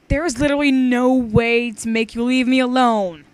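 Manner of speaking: put-on loud, childish singsong reading; read like a five-year-old. Shown as a demonstration. Reading aloud, teen reads the line badly like a child. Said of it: "I totally read that bad".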